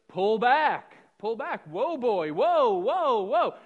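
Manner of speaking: loud urgent whoa to a runaway horse; reenacted loud call, pulling back a galloping horse. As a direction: shout the horse down as you haul on the reins.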